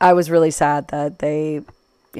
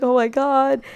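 high retold "oh my God" gush; 9 semitones higher than usual. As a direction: act out an adoring fan. Acts out gushing at the family.

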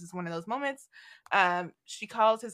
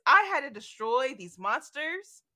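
king declaring; 4 semitones higher than usual. Retold or imitated. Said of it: "He says".

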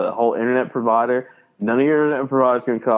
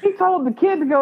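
ordinary talk

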